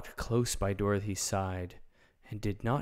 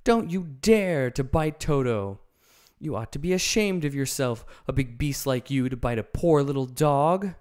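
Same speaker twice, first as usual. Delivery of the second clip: higher, louder furious scolding; Dorothy scolding the lion for biting Toto; angry cry; 5 semitones higher, 6 dB louder than usual. A narrator's reading. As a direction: scold the beast to its face. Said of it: "while she cries out".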